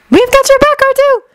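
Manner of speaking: loud high call across battle. Acted. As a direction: shout it to reassure a friend. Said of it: "Leia called".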